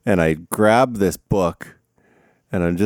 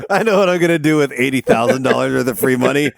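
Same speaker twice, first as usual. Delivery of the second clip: put-on lampoon a careless scholarship kid; mocking dumb student; 3 semitones higher than usual. Teacher mocks freshmen wasting scholarships on weed. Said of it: "the first day they're like".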